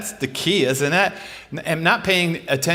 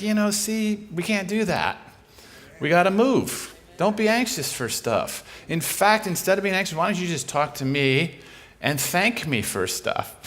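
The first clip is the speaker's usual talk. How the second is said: lightly imitated coaxing, higher and easing down; Jesus, casual and coaxing; 5 semitones higher than usual. Imitating Jesus talking the worried speaker round, casual coaxing. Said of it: "That's how he talks".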